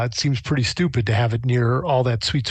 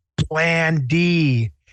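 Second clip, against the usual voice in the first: loud, conspiratorial theatrical stage whisper; 4 semitones higher than usual. Turning to the nearest companion in character: stage whisper. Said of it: "in a stage whisper say".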